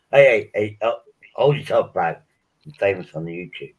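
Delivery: loud swaggering brag to passers-by; mock boast. Mocking himself to strangers, loud brag. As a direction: show off being famous, loudly. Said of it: "I go".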